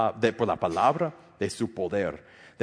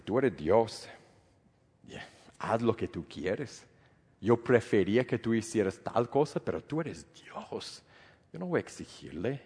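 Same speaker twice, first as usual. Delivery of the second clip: soft, yielding prayer trailing quiet; a quiet, submissive prayer to God; surrendered prayer; 4 dB quieter than usual. Retold or imitated. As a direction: pray it gently, letting go.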